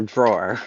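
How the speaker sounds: 'drawer' with the final R sounded; mock non-Boston 'drawer', R at the end; R-sounded pronunciation. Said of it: "teach you how to pronounce things".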